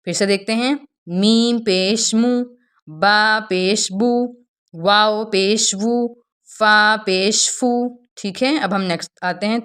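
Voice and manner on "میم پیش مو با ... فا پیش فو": syllables read briskly and gently, no stretching; teacher rereading the syllables quickly and softly as instructed. Shown as a demonstration. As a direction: keep it light and quick, don't drag the vowel. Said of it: "تینوں کو ہم جلدی سے اور نرمی سے پڑھیں گے".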